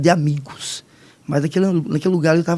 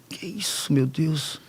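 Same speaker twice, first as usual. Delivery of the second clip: hushed bewilderment; 2 semitones lower, 9 dB quieter, slower than usual. Retold or imitated. Startled by a voice.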